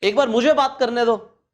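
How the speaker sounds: mock bragger. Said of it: "मैंने सुना है बात करते हुए".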